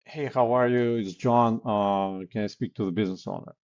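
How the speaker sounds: confident caller, running straight on into the request; assured, no waiting for an answer; relaxed and confident. Shown as a demonstration. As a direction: say it expecting to be put through, speeding up at the end. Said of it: "you're relaxed and confident".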